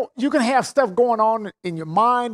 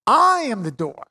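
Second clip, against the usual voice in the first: "I am the door" with I stressed; emphatic. Shown as a demonstration. Preacher quoting Jesus, firm stress. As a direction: state "I am the door" firmly. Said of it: "He's saying it again emphatically".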